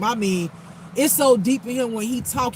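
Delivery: ordinary talk, nothing marked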